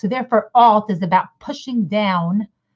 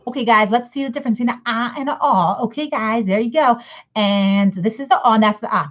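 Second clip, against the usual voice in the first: mock teacher; 3 semitones higher than usual. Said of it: "you taught it like that".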